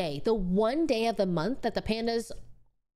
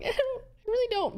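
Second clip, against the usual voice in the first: insistent protest; 12 semitones higher than usual. Retold or imitated. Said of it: "I'm like".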